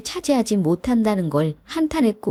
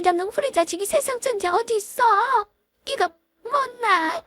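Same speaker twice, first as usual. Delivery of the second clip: an aggrieved mother crying out at her son; a mother's thin wail of outrage; 9 semitones higher than usual. Acted. Mother wails at son's grab.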